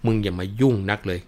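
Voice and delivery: mother-in-law cursing Khun Chang, loud; angry cursing. Acted. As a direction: snap at him to butt out. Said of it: "ก็หันไปด่าขุนช้างบอกว่า".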